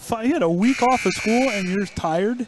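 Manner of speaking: teasing disbelief. Real, not acted. Teasing a tired co-host.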